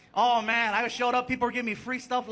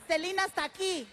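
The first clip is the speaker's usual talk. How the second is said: put-on higher, hushed, awed kids' voice; awed kids; 8 semitones higher than usual. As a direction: whisper it like they've found a shrine. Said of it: "They touch the car like freaking".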